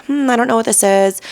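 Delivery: mildly confused self at the hostess stand; puzzled hmm. Retold or imitated. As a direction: wonder aloud at the odd object.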